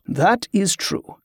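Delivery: slow, amused, a touch of a chuckle; Grievous conceding the point with a mild chuckle. Acted. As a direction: concede it lightly, mildly amused. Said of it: "said with a chuckle".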